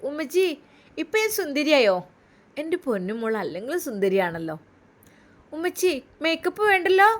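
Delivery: put-on lightly childlike, eager questions; a small girl wanting to look pretty; little girl. Daughter asking mother if she looks beautiful, lightly childlike.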